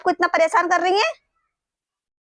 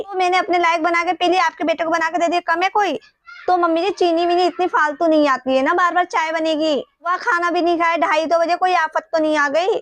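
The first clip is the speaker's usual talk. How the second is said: irritated scolding; 3 semitones higher than usual. Acted. Rude daughter-in-law scolds mother-in-law.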